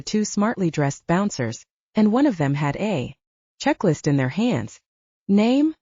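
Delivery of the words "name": blunt. A narrator's reading. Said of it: "asked bluntly".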